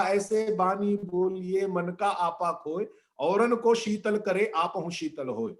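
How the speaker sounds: slow, measured verse recital; couplet recitation. Acted. Speaker quotes Kabir on gentle speech, slow recitation. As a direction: recite the doha unhurriedly.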